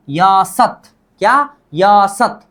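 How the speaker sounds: slow, drawn-out यासत; modelled pronunciation. Shown as a demonstration. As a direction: stretch the first syllable of यासत, end short. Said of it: "क्या बोलना है".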